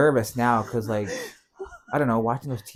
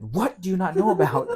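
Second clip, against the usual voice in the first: higher-pitched retold frustration; mildly exasperated demand; frustrated; 7 semitones higher, 4 dB louder than usual. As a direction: throw the question back, fed up. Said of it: "I'm getting frustrated now".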